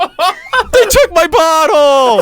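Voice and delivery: high, very slow wail broken by laughter; retelling the drunk's lament through laughter; laughing repeat. Retold or imitated. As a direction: laugh it out, stretching every word.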